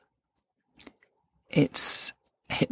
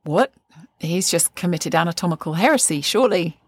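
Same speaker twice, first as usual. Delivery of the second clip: mock shock; 2 semitones higher than usual. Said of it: "I remember my ears standing up with".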